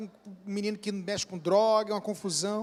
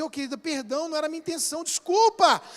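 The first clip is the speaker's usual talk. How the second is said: gentle apology; 6 semitones higher, faster than usual. Pretend. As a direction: apologize tenderly, asking forgiveness. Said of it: "Eu vou dizer". (pedido de desculpas carinhoso)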